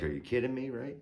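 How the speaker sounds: incredulous outburst; indignant disbelief. Retold or imitated. Homeowner retelling his reply to the deputy, high-pitched disbelief.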